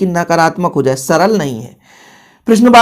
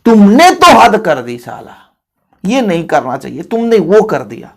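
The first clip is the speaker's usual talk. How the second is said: you've really crossed the line, pal; exasperated. Shown as a demonstration. Teacher acting exasperated friend.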